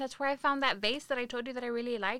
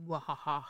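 spooky cackle; 6 semitones lower than usual. Acted. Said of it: "spooky voice".

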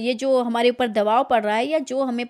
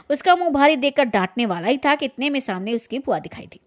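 measured storyteller reading, voicing each figure lightly; story narration. A narrator's reading. Narrator reading a Hindi story to listeners, in an even storytelling voice. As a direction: read the tale aloud to listeners, steady and clear.

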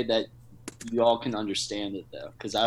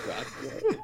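much higher squeaky rock and roll; high squealed cheer; 9 dB quieter than usual. Acted.

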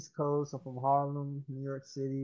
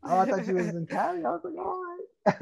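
excited; 12 semitones higher, 15 dB louder than usual. Real, not acted. Mistook where she lives.

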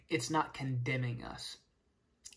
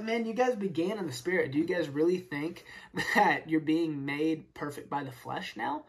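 sarcastic. Retold or imitated. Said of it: "he's being so sarcastic".

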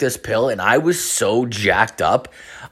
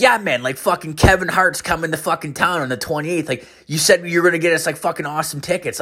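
lightly voiced eager pal, higher pitch; eager buddy; 6 semitones higher than usual. Buddy reminds him about promised concert tickets, lightly acted eagerness. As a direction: imitate a buddy pushing his plans, pitched up.

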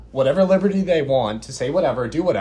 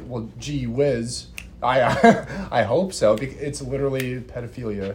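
fake wholesome. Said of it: "everyone was like".

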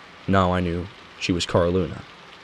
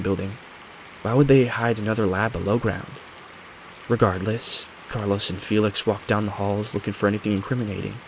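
lightly voiced witness telling her account; 2 semitones higher, 3 dB quieter than usual. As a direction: recount it a touch softer, as a measured confession.

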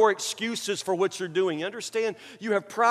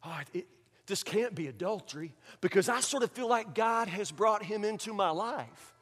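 self-justifying believer; 7 dB quieter than usual. Acted. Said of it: "you begin to talk like that".

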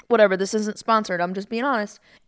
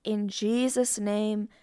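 prayer. Acted. Leads a prayer.

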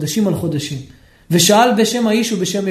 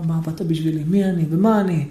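בוכה; 5 semitones lower, 4 dB quieter than usual. Acted. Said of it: "התחיל לבכות".

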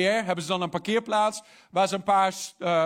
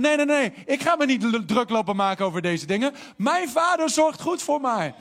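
higher, louder firm no to the lie; firm refusal; 4 semitones higher, 4 dB louder than usual. Shown as a demonstration. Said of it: "Dan moet je zeggen". (vastberaden nee, hoger en luider)

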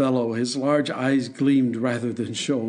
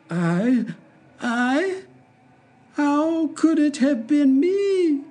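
much higher, slow dwarf voice; innocent dwarf; 14 semitones higher, much slower than usual. Acted. Hop Frog answers the king, high, mock innocent. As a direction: feign innocence, rising.

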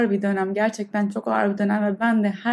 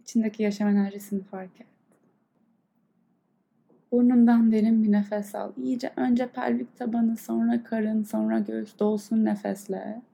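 guided meditation. Acted. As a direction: calmly guide the breath. Leads a breathing meditation. (yavaş, yumuşak meditasyon sesi)

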